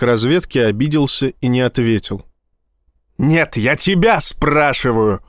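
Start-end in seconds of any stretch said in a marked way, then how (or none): 3.2-5.2 slow, pressing insistence; insisting. A narrator's reading. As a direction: lean on him for an answer. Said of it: "настаивал Рабинович". (настойчиво, с нажимом, медленно)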